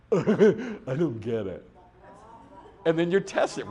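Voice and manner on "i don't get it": slow, laughing "I don't get it"; mock-bewildered with a laugh; confused student. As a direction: laugh through a baffled student. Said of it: "And then you go".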